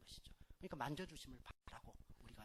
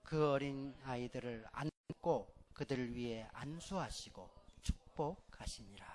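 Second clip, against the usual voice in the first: slow, loud congregational scripture reading; scripture reading aloud; 9 dB louder, slower than usual. Shown as a demonstration. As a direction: read it out together slowly. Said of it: "같이 읽죠". (회중과 함께 천천히 크게 봉독)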